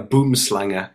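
"boomslanger" with a short "boom" and an added "-er" ending; dustman's pronunciation. Retold or imitated. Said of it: "in his accent say "boomslanger".

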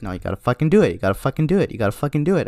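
insistent, repetitive nag, climbing in pitch; lightly voiced brain nagging on a loop; nagging inner voice. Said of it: "something in my brain that's just like".

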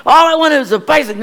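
put-on sobbing child begging for a bicycle; retold crying. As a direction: whine it like a heartbroken boy. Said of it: "I cried".

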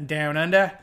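lightly mock Australian accent; touch of playful Aussie on the phrase. Crediting Australians with the method, mock Australian accent. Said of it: "The Australians were doing it".

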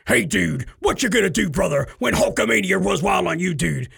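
growled, shouted wrestler bravado; Hulk Hogan. Shown as a demonstration. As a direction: hype it up like a pro wrestler. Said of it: "like Hulk Hogan".

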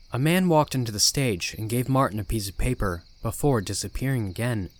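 ordinary delivery

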